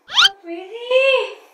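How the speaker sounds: drawn-out cooing. Real, not acted. Drawn-out praise.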